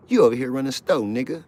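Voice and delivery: high, loud barking guard; mock guard yell. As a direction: bellow like a prison guard. Guard accusing inmate.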